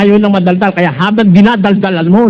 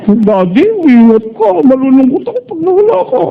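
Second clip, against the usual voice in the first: sweet loving wife. Retold or imitated. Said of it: "Sweet na sweet".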